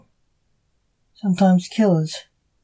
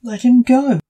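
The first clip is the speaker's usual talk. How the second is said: high, insistent, lightly menacing order; dark demand; 6 semitones higher, 3 dB louder than usual. A narrator's reading. Junior orders the captor to free him, darkly. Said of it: "said Junior darkly".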